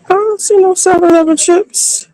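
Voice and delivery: disbelieving, pitch jumps up; can't believe they're gone; surprised. Real, not acted. Can't find the chips.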